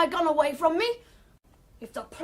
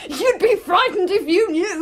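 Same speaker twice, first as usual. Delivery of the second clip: teasing laugh; 4 dB louder than usual. Acted.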